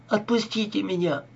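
high, desperate begging; desperate plea. A narrator's reading. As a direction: plead to be let go. Captive girl begging release.

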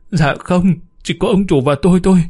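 high, quick, scared voice; rising fear toward the end; terrified answer. Acted. Maid admits to the neighbour she is terrified, high and quick.

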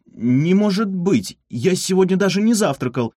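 how dare you accuse me; indignant. A narrator's reading. Marmelad to the cats, indignant protest. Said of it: "возмутился Мармелад".

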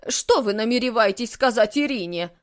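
loud, worried, hurried question; suddenly fear the worst; suddenly anxious. A narrator's reading. Housekeeper alarmed about Irina, a touch of panic. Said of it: "вдруг заволновалась Валентина Матвеевна".

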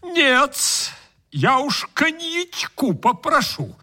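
high, smug guest voice; greedy guest voice. Acted.

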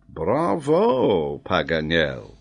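applaud him with brief enthusiasm; approving. Acted. Major congratulates the geographer, approving.

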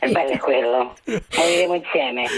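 altered voice to hide the caller; deep pitch shifted. Acted. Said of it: "mettiamo una voce camuffata di donna".

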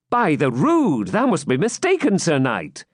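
stagey fake archaic declaiming. A narrator's reading. Wamba protests.

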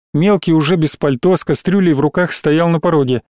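plain reading voice

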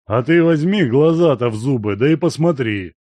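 loud, hoarse mocking reply; hoarse retort. A narrator's reading. Guest answering the servant, loud hoarse retort. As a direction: rasp it back at him. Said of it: "хрипло отозвался Данила Семёныч".

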